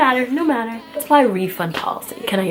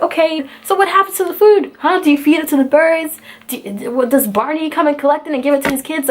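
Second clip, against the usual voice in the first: sarcastic questioning; 4 semitones higher than usual. Retold or imitated. Mocking the company on the phone.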